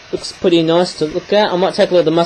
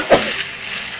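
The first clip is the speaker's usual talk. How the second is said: real stifled sneeze. Real, not acted. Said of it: "That was a sneeze".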